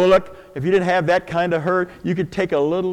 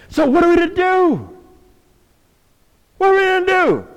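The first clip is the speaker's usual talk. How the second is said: rallying call; 11 semitones higher than usual. Acted. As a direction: rouse the crowd for an answer. Rallying question to congregation.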